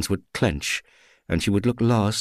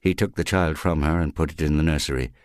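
ordinary delivery, nothing marked

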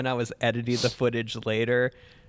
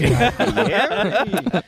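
very slow loud preacher drawl; Pastor Puppet inflection; 6 semitones higher, 6 dB louder, much slower than usual. Pretend. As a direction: stretch the name out like a TV pastor. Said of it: "Pastor Puppet inflection".

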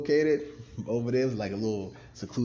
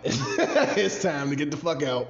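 laughing; 4 semitones higher, 4 dB louder than usual. Real, not acted. Laughs while repeating the closing call.

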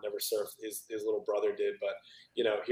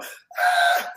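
short breathless mock scream of disgust; a quick unvoiced yelp of shock; retold scream; 10 dB louder than usual. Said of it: "Everyone's screaming".

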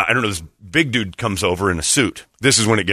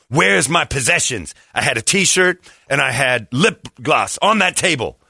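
indignant demand; 3 semitones higher than usual. Retold or imitated. Accuser confronts friend in retold quarrel.

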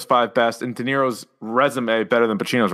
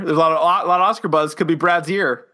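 Billy Eichner impression; 3 semitones higher than usual. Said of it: "To quote Billy Eichner".

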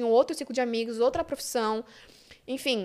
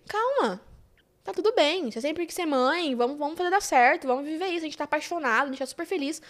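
higher-pitched, soothing retold reassurance; mildly reassuring; 3 semitones higher than usual. Partner calms her after the pregnancy news, mildly reassuring. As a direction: talk a panicking partner down, lightly acted. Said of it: "sensato, prático".

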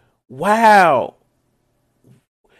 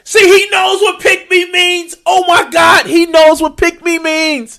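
higher and louder, shouting in disbelief; triumphant shout; 9 semitones higher, 5 dB louder than usual. Real, not acted. Catching the youtuber out, a shouted triumphant outburst. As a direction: yell it like you caught him out.

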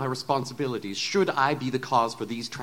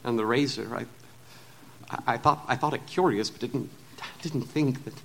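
trembling voice; 5 dB quieter than usual. Acted. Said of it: "with a trembling voice".

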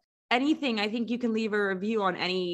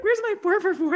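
laughing; 7 semitones higher, 4 dB louder, faster than usual. Retold or imitated. Acted quote of gator thrower.

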